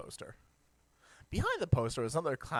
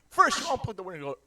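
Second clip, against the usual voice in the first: mock announcement; 6 semitones higher, 7 dB louder than usual. Contrasts with plug back in.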